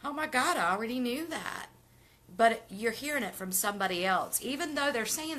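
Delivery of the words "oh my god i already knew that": higher-pitched mock realization; acted aha moment. Acting out someone's aha moment, mock surprise. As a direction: play a sudden realization, pitched up. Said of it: "An aha moment".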